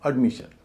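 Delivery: "एडमिशन" as ud-MI-shun; weak uh opening in "एडमिशन", weight on मि; light first syllable. Shown as a demonstration. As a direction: say "एडमिशन" with its first vowel reduced. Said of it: "इसलिए इसको बोला जाएगा अड".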